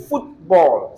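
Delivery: "football" with the weight on FOOT; teacher's demo of "football", first part stressed. Shown as a demonstration. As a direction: stress FOOT in "football", let ball fall away. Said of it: "stress foot".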